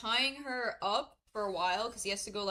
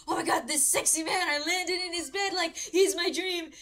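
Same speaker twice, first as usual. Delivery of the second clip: higher, louder lovestruck gushing; mock drooling; 6 semitones higher, 5 dB louder than usual. Smitten woman thinking about the prince, mock drooling. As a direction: gush like a besotted fan. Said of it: "she's literally drooling at him".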